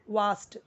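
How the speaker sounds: वास्ट said with a clear v and a long a; pronouncing vast. Shown as a demonstration. Teacher showing how to read vast. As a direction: say वास्ट with a v sound, not a w. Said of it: "इसको हम पढ़ेंगे वास्ट".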